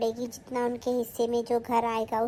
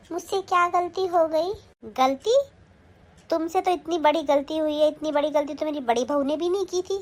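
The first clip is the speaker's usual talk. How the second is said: angry scolding. Acted. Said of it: "क्यों चिल्ला रही हो माँ जी".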